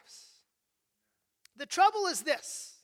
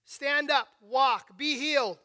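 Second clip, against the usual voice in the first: mock yell; 2 semitones lower, 4 dB louder, slower than usual. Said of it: "Paul yells out across the crowd".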